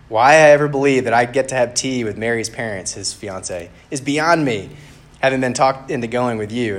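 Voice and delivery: lightly acted, put-upon complaint; bickering. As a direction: grumble indignantly at an exasperating friend. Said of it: "they're bickering with each other".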